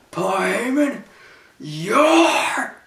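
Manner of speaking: high, rising announcement; Vince McMahon voice. Retold or imitated. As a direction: build it up high. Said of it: "he goes like this".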